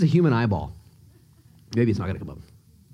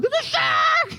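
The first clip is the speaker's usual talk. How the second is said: mock panic, much higher; panicked shout; slower than usual. Pastor hamming up a shark panic, high shout. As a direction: yell it like you spotted a fin. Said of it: "'cause I would freak out".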